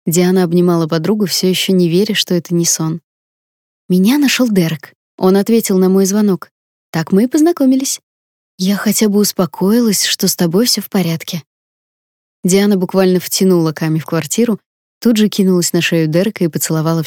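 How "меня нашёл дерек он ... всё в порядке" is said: put-on bubbly sorority girl. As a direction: gush like an excited best friend. Camilla explains, still excited.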